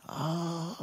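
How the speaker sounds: high held "ah" of pain; mock pained scream. King hurt on the marble floor, mock pained scream. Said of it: "could hear him screaming".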